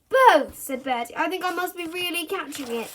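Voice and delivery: high, pitiful claim; fake ill boy. A narrator's reading. Bertie faking illness.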